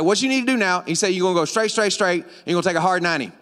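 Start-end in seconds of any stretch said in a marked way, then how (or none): 0.0-0.8 lightly imitated Cajun accent; a touch of Southern local; old Cajun man. Cajun man starting his directions, lightly imitated Southern accent. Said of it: "he was like". 1.1-3.3 quick imitated Southern directions; Southern speech. Cajun man giving directions to a rider, lightly imitated Southern accent. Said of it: "if you don't speak Southern".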